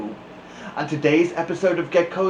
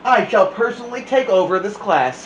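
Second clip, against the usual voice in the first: higher, louder stately announcement; pompous principal; 6 semitones higher, 5 dB louder, faster than usual. Acted. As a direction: proclaim it like a self-important principal.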